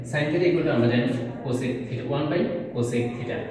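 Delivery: very slow, word by word; slow dictation. Shown as a demonstration. Teacher spelling out the formula, very slowly. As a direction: lay out the formula slowly for the class.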